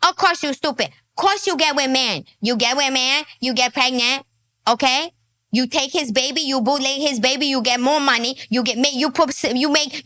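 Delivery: put-on lightly done Chinese-accented broken English; a hint of a Chinese accent, lecturing; Daisy. Daisy scolding the woman, in light Chinese-accented broken English. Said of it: "Now, Daisy would tell her".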